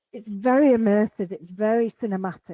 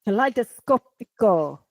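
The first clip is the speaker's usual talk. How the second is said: put-on louder echo in an Italian accent; 5 dB louder than usual. Echoing co-host's song title, playful Italian accent. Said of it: "That's, that's an Italian accent, not a Spanish accent".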